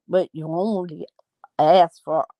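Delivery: lightly voiced Northern Irish accent; a hint of Northern Irish in the complaint. Host quibbling over a cup of tea, light Northern Irish accent. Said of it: "I'm going northern".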